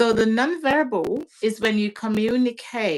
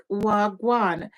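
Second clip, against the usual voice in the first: Jamaican patois. Retold or imitated. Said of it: "I tell her patois".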